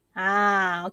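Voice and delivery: usual speaking voice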